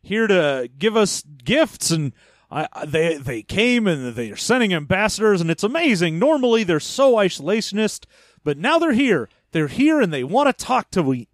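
mock gushing delight, rising toward the end; super happy. Leia gushing to Han about the visitors, mock super happy. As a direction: play her as lightly overjoyed. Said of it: "she looks super happy".

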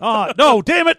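high-pitched comic frustration; mock dismay. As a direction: act out a plan going wrong. Acts dismay at the growing zombie.

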